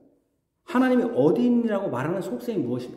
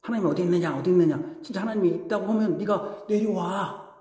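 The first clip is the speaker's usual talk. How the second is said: mocking taunt; 4 dB quieter than usual. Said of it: "약 올려".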